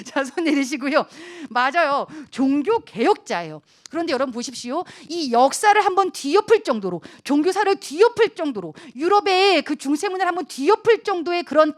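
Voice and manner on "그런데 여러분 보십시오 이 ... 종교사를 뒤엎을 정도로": ordinary talk, nothing marked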